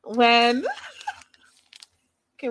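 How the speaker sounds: breaking into laughter mid-sentence; cracking up. Real, not acted. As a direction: start the word, then lose it laughing. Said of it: "wait, let me not laugh".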